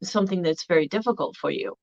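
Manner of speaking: validating tone. Shown as a demonstration. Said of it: "say something very simple like".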